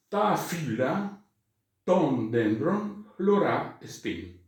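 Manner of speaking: slow, word by word, stress on each article; slow dictation. Shown as a demonstration. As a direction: dictate it for students to write. Teacher dictating Greek sentence. (el profesor dicta la frase despacio)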